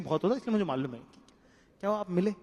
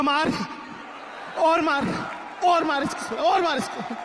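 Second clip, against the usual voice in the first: excited yelling; 9 semitones higher than usual. Retold or imitated. Comic yelling at the movie fight, egging it on. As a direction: cheer a brawl on like a rowdy fan.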